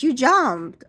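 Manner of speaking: lightly voiced worried beautician; concerned beautician. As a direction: point it out with concern. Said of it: "She says".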